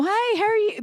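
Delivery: high, loud hello to fans; friendly mock greeting. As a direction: call out a big friendly greeting. Acting out a star greeting fans.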